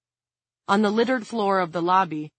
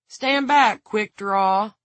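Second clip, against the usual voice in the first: loud, raised command; 4 semitones higher, 6 dB louder, much slower than usual. A narrator's reading. Pearl shoving Don away from the door, loud order. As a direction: order him out of the way.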